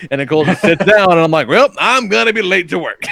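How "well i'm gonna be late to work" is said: higher, said through a laugh; mock-whine about being late while laughing; laughing complaint. Retelling himself to wife.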